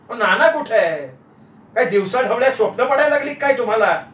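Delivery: incredulous wifely rebuke; exasperated wife. Acted. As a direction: chide him for dreaming. Wife mocks his daydreaming.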